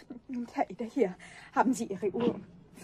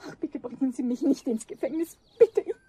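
begging, rising to a louder plea; desperate pleading; 4 dB louder than usual. Acted. The caught thief begs Eder not to call the police, pleading. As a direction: plead for mercy, voice climbing.

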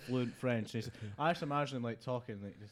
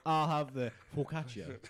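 slow, put-on Italian accent. English diner trying to order Italian food, mock Italian accent. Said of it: "in with an Italian accent".

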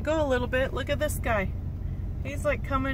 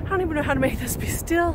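out of breath; faster than usual. Real, not acted. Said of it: "I'm out of breath again".

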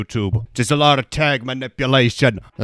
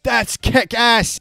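hyped; 9 semitones higher, 3 dB louder, slower than usual. Real, not acted. Excited at the game.

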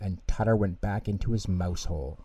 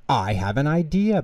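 bright idea announced, pitched up; higher, eager storybook exclamation; exclaiming; 5 semitones higher than usual. A narrator's reading. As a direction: announce it with mild excitement. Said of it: "Bear exclaimed".

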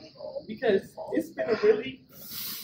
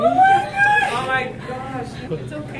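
crying; 6 semitones higher, 7 dB louder, much slower than usual. Real, not acted. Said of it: "Are you crying?".

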